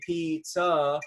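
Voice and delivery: "pizza" with both syllables equally weighted; "pizza" evenly stretched over two syllables; equal stress on pizza. Shown as a demonstration. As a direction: give "piz" and "za" in "pizza" the same emphasis. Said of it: "and it's equal".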